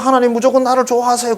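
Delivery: preacher mocking believers who demand God's favour; mocking whiny demand. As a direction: mimic a pushy believer.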